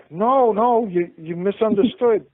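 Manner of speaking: lightly acted attempt to placate; mock placating. Otto placates an angry husband, mock placating.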